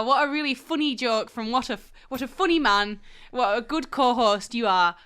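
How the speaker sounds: deliberate, loudly insincere admiration; sarcastic mock praise. Co-host mock-praising the host after a jibe, heavy sarcasm. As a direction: lay the fake amusement on thick.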